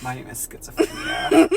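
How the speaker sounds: very high squeaky mock emo self-introduction; mock emo intro. Friend joking about emo names, squeaky emo voice. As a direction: introduce yourself as a dramatic emo kid. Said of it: "good emo name".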